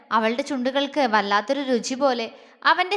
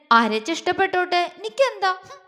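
inner huff; 5 semitones higher than usual. Acted. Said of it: "അവൾ ദേഷ്യത്തോടെ മനസ്സിൽ പറഞ്ഞുകൊണ്ട്".

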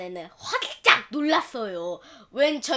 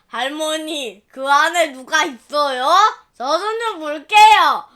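put-on eager child; 7 dB louder than usual. Boy sucking taffy.

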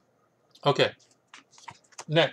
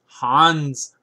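louder mock German accent; 5 dB louder than usual. Book reviewer naming a chess author, mock German accent. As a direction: announce the name in a put-on German accent. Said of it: "That's my German".

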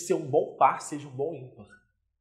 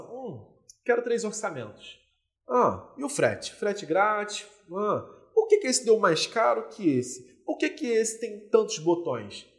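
lightly acted picky shopper weighing options; cautious buyer; 2 semitones higher than usual. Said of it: "Compradora cautelosa". (compradora cautelosa, levemente encenada)

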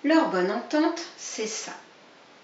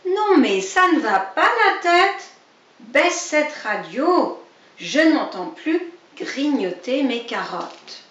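high, loud outburst easing into slow scolding; furious neighbour yelling about the radio; angry rabbit neighbour; 5 semitones higher, 6 dB louder than usual. Acted. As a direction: blow up at the noisy neighbour, then grumble.

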